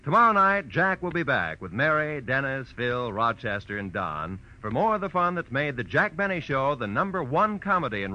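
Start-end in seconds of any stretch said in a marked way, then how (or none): none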